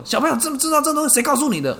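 high, fast, loud worked-up father; agitated father. Retold or imitated. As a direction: interrogate the kid in a frenzy. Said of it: "我爸超激动".

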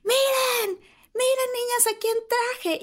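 high, sing-song mother showing off; squealing mock mom; excited mom voice. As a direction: announce it like a proud hostess. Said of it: "así de".

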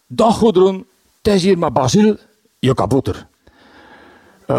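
a hint of a creaky gnome message; garden gnome voice. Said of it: "krakerige, typische tuinkabouterstem".

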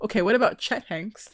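hushed, conspiratorial whisper; a secret whisper to a friend; whispered question. Real, not acted. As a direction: lean in and whisper the name. Gossiping about a celebrity crush.

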